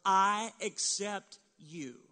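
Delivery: slow, firm and tender; sincere I accept you. Shown as a demonstration. Pastor voicing a parent reassuring a child, slow and tender. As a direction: say it slowly like you mean it. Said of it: "You're letting your child know".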